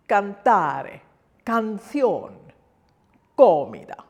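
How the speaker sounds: cantare, canción, comida each begun with a firm K; hard C. Shown as a demonstration. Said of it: "it becomes hard".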